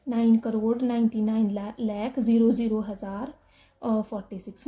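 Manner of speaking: mock the mistake by saying ज़ीरो ज़ीरो हज़ार aloud; wrong reading. Shown as a demonstration. Teacher showing students the wrong way to read the number, reading the zeros aloud. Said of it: "ऐसे नहीं पढ़ना है कि".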